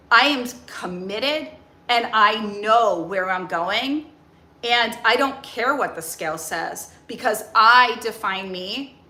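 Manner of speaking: slow, steady talk to the inner critic; firm, calm self-talk. Shown as a demonstration. Speaking to her inner critic Crystal, slow and firm. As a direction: take the wheel back, calmly. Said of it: "I call her Crystal. And I say".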